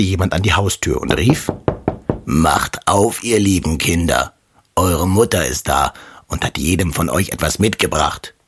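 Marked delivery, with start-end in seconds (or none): 2.3-8.3 a hint of a rough wolf faking mother; wolf pretending, lightly roughened voice. Wolf at the door pretends to be mother, rough voice. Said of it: "an der rauen Stimme".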